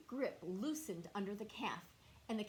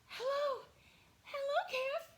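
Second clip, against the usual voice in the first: much higher, sing-song hello; tractor greeting; 4 dB louder than usual. Acted. Otis the tractor greets the stuck calf, sing-song and high. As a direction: call a cheery hello like a friendly tractor. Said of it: "It was something like".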